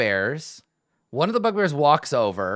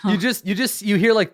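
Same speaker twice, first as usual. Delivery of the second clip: laughing; 10 semitones higher, 6 dB louder than usual. Real, not acted. GM laughing at the invisible oil.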